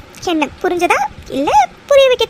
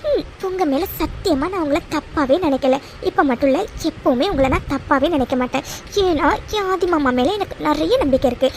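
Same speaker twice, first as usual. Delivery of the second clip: tender reassurance; 5 semitones lower than usual. Acted. Wife reassuring worried husband.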